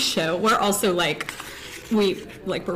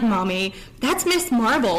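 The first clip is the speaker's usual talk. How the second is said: put-on sassy little kid; 3 semitones higher than usual. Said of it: "he was very sassy about it".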